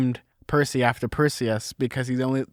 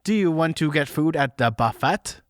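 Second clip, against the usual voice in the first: too-conspicuous passenger; 3 semitones higher than usual. Acted. Mesmerized humans on a cruise offering food, conspicuously stilted. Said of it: "too conspicuous".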